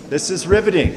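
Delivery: sarcastic. Real, not acted. Dry joke about boring bylaw.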